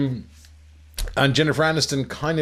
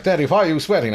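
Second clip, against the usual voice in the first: mock English little boy, higher and louder; child's English accent; 5 semitones higher, 4 dB louder, faster than usual. Son asking his daddy a question, in a mock English accent. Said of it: "Why is your son English".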